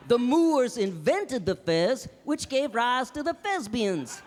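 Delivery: loud, slow, drawn-out punchline; proud loud payoff of the fez joke; triumphant punchline. Acted. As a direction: land the big reveal slowly and loudly.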